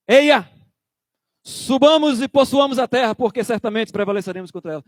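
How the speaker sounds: brado ousado e alto, depois mais rápido; Caleb encorajando. Retold or imitated. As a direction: convoque o povo com coragem. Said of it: "Olha o que Caleb diz". (Caleb encoraja o povo com um brado confiante)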